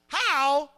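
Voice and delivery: "How" set apart as its own emphasized word; emphatic word. Shown as a demonstration. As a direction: stress on "How". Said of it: "You're gonna emphasize every word".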